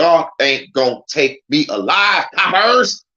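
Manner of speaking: defiant movie-gangster taunt, yelled on the last word; playful outlaw defiance, building to a high shout; mock movie outlaw. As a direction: play a cornered movie gangster.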